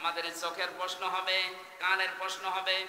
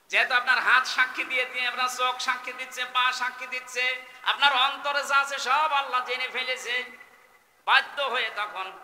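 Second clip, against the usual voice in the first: high, loud relentless listing; full-force preaching; 8 semitones higher, 7 dB louder than usual. Real, not acted. Preacher lists the body testifying against the sinner, high shouted preaching. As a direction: hammer out each witness at high pitch.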